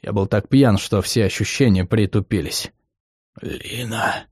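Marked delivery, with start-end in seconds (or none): 3.4-4.3 put-on a drunk, hoarse croak, much softer. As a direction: croak her name out. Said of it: "прохрипел".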